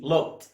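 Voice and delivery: looked said "lookt", in one beat; final T sound. Shown as a demonstration. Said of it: "بنطق دي هنا تي". (نطق آخر looked تاءً)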